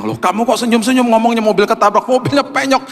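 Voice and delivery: high, sing-song wife's voice; a wife teasing in a high, sing-song voice; wife's teasing question. Retold or imitated. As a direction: tease him in a lilting voice. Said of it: "dia bilang".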